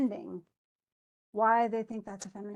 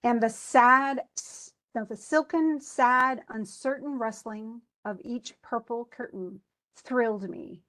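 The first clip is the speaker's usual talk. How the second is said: poem reading. Shown as a demonstration. Teacher reading the poem to her student, measured. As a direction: read it out with the beat of the verse.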